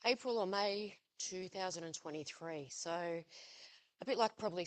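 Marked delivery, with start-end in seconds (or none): 2.7-4.6 out of breath and halting, slowed; winded, pausing for air. Real, not acted. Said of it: "sorry, out of breath".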